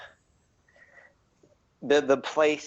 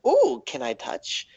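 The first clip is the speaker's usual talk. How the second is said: very high, begging gnome voice; eager gnome; 13 semitones higher than usual. Acted. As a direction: plead to touch the shiny bracers. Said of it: "He's like".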